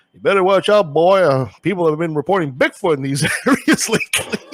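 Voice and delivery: half-laughing attempt at a Texan accent. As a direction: play a Texas driver warning a hitchhiker in Texan. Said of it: "I'm gonna do my best Texan accent".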